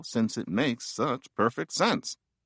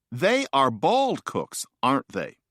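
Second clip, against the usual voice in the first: example sentence. Shown as a demonstration. Reciting example sentence for contrast.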